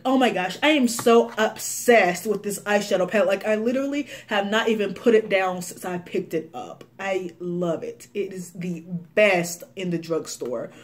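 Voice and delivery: mild mock gushing; a hint of a bubbly influencer; gushing YouTuber. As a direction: lightly imitate an over-excited beauty vlogger. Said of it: "overly, excessively use the words excited and obsessed".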